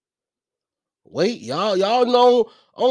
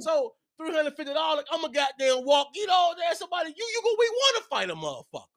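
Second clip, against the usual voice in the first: excited shouting rant; 5 semitones higher than usual. Real, not acted.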